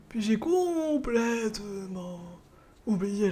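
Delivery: put-on slow elderly storyteller; old man voice. Shown as a demonstration. Voices old Goron's recollection.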